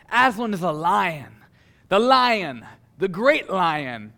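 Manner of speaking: a lightly put-on Beaver voice, slowing on the great lion; mildly voiced Missus Beaver. Preacher corrects himself and voices Missus Beaver, mildly acted. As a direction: read it as a touch of a solemn Missus Beaver. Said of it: "Oh, no, this is Missus Beaver".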